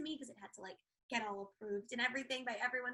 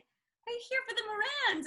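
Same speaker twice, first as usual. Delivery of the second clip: curious neighbour; 11 semitones higher, 6 dB louder than usual. Retold or imitated. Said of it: "she's like".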